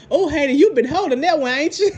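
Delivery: laughing at Hayden's comeback; teasing laugh. Retold or imitated. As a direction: giggle as you needle him.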